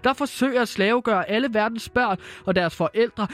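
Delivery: gentle fairy-tale narration. Acted. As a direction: read it like a bedtime Christmas tale. Reads Christmas story aloud. (blød hyggelig julefortælling)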